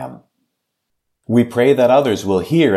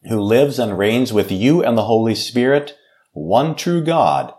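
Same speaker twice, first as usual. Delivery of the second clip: prayer; 2 semitones higher than usual. Acted. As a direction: lead the congregation in prayer, earnest and steady. Pastor leads a closing prayer.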